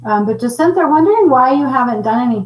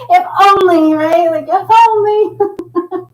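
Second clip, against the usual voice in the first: 1 wistful; 9 semitones higher, 6 dB louder, slower than usual. Real, not acted. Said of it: "wistful joke".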